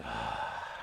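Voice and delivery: long, soft breath out; demonstrated exhale. Shown as a demonstration. Coach leading a deep breath, exhaling slowly. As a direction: let a deep breath go audibly. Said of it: "then let that breath out".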